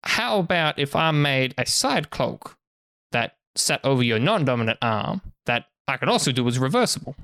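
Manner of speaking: lightly voiced merchant, lively sales pitch; salesman merchant. Merchant sweetening a cloak deal for customers, lightly voiced pitch. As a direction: pitch it like an eager market trader.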